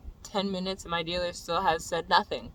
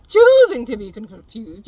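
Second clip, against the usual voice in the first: louder and higher, cut off mid-word; retold yelling; 4 semitones higher, 11 dB louder than usual. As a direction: yell it, then break off. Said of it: "So I'm yelling at him".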